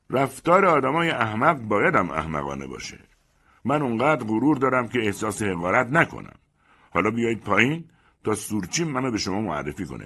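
wounded pride, loud; proud offended man. Acted. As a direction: hold your head up and scorn them. Proud man answers from below.

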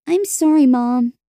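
earnest little apology to mom; apologetic girl. Acted. Girl apologising to tearful mother.

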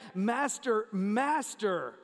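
"Master" firmly stressed both times; emphatic. Retold or imitated. Disciples in a storm, emphatic doubled "Master". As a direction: give each "Master" its own emphatic beat. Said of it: "They're emphatic".

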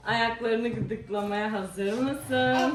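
slow playful threat; teasing. Acted. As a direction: stretch it out teasingly. (ağır ağır, şakacı tehdit)

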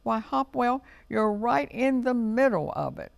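high, animated robin exclamation; bright-eyed storybook astonishment, high; exclaiming. A narrator's reading. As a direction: pitch it well up in amazement. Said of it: "exclaimed Robin".

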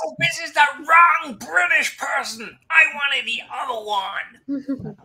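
put-on Canadian accent. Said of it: "that was my Canadian accent".

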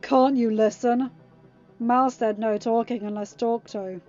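loud, impatient rebuke; growled reprimand. A narrator's reading. Harry ordering the captive to listen, growled. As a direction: scold with force, growling. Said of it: "Harry growled and jabbed Freddy's chest".

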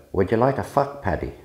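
attempted Cork accent, mock Irish. Shown as a demonstration. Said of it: "Can you do a good Cork accent?".

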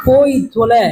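low, mock get-lost curse; inner exasperation. Teacher's unspoken thought about pupil, low exasperation. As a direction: curse the pupil under a polite front. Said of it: "மனசுக்குள்ள அவ்வளவு வருத்தம்".

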